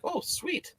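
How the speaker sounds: high, soft little cheer; mock delight. Thinking the fruit has frosting, high mock delight. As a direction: coo it like a treat is coming. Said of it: "I was like".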